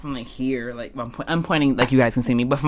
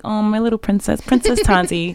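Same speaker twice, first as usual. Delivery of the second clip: adoring, softer; 5 semitones higher, 6 dB quieter than usual. Retold or imitated. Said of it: "I want you to look at me like".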